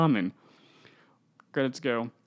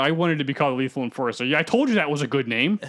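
Venom voice. Retold or imitated. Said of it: "Venom's like".

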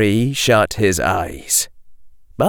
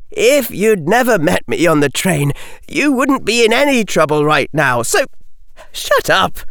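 Harry; 7 semitones higher than usual. A narrator's reading. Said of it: "said Harry Potter".

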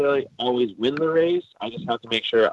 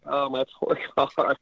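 slow, laughing through it; half-laughing grief for a poor car; laughing mock lament; 4 semitones higher than usual. Retelling losing his car's engine, slow, laughing lament. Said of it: "And I'm like".

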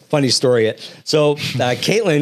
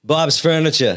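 Boston accent slipping out; natural touch of Boston accent; 2 semitones higher than usual. Real, not acted. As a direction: drop the Rs in "Furniture", Boston style. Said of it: "See, you already came out".

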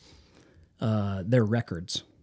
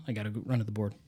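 hushed aside to himself; whisper; 2 semitones lower, 7 dB quieter, much faster than usual. Retold or imitated. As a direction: whisper it like a secret. Sneaking a look at the board.

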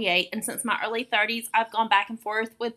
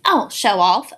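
teasing; 3 semitones lower, 9 dB louder than usual. Real, not acted. Teasing son's heavier lift.

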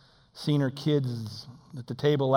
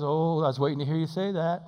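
gentle voice of God; 2 semitones higher than usual. Acted. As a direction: answer kindly, as God. God answering the man.

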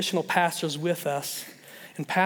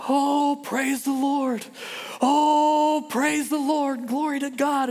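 joyful praise; 8 semitones higher, much slower than usual. Retold or imitated. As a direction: cry out thanks to God, overjoyed. Wife gets good news on phone.

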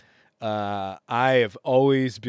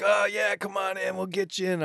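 breezy friends; 9 semitones higher than usual. Retold or imitated. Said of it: "they're sort of like".

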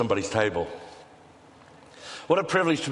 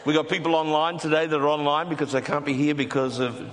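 mouth full. Real, not acted. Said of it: "shouldn't talk with your mouth full".

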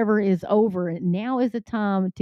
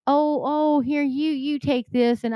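mock polite voice; 5 semitones higher, slower than usual. Mocking polite sharing in a crisis.

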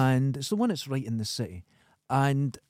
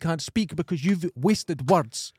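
mock outrage; 7 semitones higher, 4 dB louder than usual. Mock rant about wordy books.

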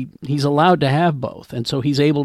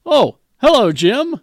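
high, bright-eyed, carefree hello; giddy Spock; 10 semitones higher, 6 dB louder than usual. Retold or imitated. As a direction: greet him like nothing's wrong, high and happy. Spored Spock answers giddily.

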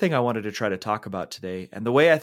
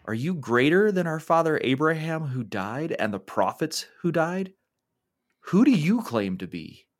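indignant challenge; 5 semitones higher than usual. Acted. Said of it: "upset and angry at those words".

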